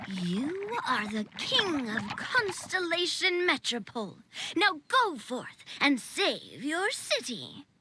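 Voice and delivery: slow, grand proclamation; solemn commanding voice. Retold or imitated. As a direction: announce it like a distant oracle. A mysterious voice decrees kingship.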